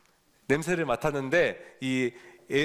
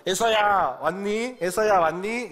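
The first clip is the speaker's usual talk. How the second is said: put-on blind old father calling loudly, pitched up; 6 semitones higher, 4 dB louder, slower than usual. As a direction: call out for the son you cannot see. Blind father calling his son.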